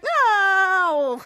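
long mock cry, sliding down; acted drawn-out wail; falling cry. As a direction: imitate someone being flung away. Acted cry of one flung off.

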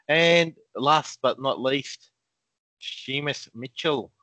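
slow, hammed-up Irish accent. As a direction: announce the name in a jokey Irish lilt. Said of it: "that's my Irish accent".

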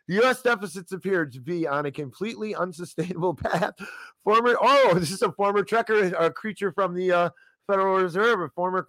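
high, giggly strained reading; still laughing. Real, not acted. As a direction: read through leftover giggles. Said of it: "catch my breath".

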